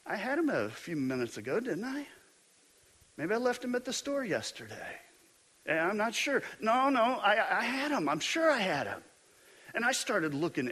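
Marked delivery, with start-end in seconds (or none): 0.0-9.0 higher, softer second-guessing; talking yourself out of panic under your breath; anxious self-doubt. Retold or imitated. Self-doubting preacher mutters, higher and softer. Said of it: "I'm like".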